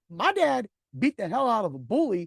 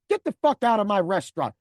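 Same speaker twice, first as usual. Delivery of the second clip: loud, forceful throw-out; angry order; 2 semitones higher, 5 dB louder than usual. Retold or imitated. Manager throwing the driver out, loud angry order. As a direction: order him out in anger.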